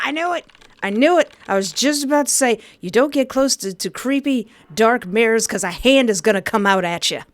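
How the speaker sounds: high, fast I-knew-it rant; excited told-you-so. Real, not acted. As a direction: blurt it out, thrilled and scared. Reacting to the hand.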